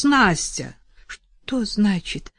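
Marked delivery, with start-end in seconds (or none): 1.1-2.3 trembling voice. Acted. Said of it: "Дрожащим голосом спросила она".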